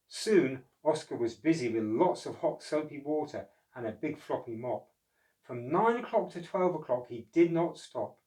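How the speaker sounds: put-on lively read-aloud voice for children; storybook narration. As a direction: tell it like a bedtime picture book.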